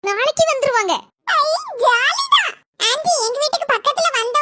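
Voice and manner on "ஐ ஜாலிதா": delighted. Acted. Child delighted.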